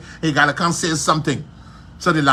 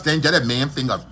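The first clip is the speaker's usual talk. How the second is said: laughing mockery; 3 semitones lower than usual. Mock quote breaks into laughter.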